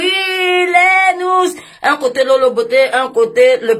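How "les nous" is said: cri aigu, fort et très traîné; étire le cri comme un perroquet; perroquet criard. Pretend. Imite le perroquet en criant. (cri de perroquet aigu et traîné)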